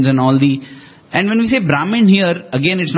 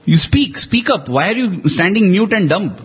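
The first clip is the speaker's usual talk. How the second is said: raised, urgent pleading with the court; 3 semitones higher than usual. Retold or imitated. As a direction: urge the silent ministers to speak up. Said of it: "he actually pleads with them".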